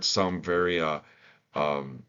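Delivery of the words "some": light emphasis on "some", set slightly apart; stress on some. Real, not acted. Trainer qualifying a point about complaining, stress on "some". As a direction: lean gently on the word "some". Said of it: "I'm emphasizing the word".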